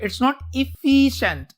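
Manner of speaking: very slow, every word of It's not efficient stretched out; slow emphatic correction. Shown as a demonstration. Teacher slowly corrects students on the word, emphatic. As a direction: spell out the point slowly, leaning on efficient. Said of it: "एफिशिएंट नहीं है".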